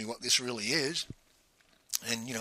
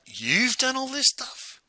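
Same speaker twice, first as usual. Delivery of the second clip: much higher, slow, drawn-out disbelief; incredulous; 11 semitones higher, slower than usual. Retold or imitated. Pete learns his legendary colleague did the course, slow high disbelief. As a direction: stretch each word in amazement.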